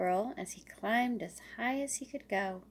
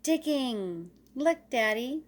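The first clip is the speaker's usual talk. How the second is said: put-on eager, louder child call; excited little squirrel; 3 semitones higher, 5 dB louder, slower than usual. Little Squirrel calls to Daddy while digging, eager. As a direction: show off to Daddy, bursting with pride.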